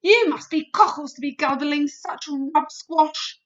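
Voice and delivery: a loud, rough brute giant scoffing; mock the vegetable loudly; scornful giant. A narrator's reading. Bloodbottler voice, scornful.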